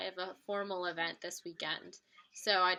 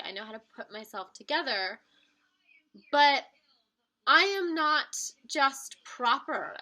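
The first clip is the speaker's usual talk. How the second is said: voicing the accent nail; 4 dB louder than usual. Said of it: "the accent nail kind of says".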